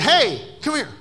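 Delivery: loud, high summoning shout; re-enacted loud, high call; calling someone over. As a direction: holler it out to get their attention. Calls coworker over in retold story.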